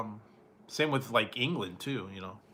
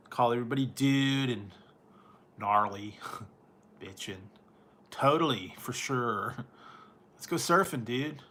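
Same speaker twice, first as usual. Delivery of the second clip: mock California surfer. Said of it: "we eat avocados and go surfing and say".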